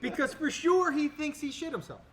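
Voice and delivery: laughing. Real, not acted. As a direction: crack up while telling it. Laughing while telling prank.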